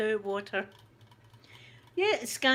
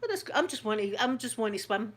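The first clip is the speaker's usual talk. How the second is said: polite brush-off. Retold or imitated. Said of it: "and I'm going".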